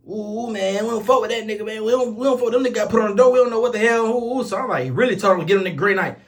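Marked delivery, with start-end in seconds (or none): 0.1-4.4 mock inmate voice. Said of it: "but I'm like".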